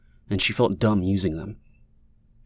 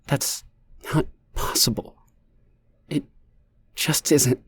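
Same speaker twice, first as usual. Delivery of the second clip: slow; 5 semitones higher than usual. A narrator's reading. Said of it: "Leah's voice was slow".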